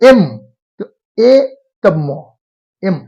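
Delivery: "एम" split into an e vowel, then mo, with pauses; sounding out. Shown as a demonstration. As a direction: break "एम" into its sounds and rejoin it. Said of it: "consonant होते हुए उच्चारण".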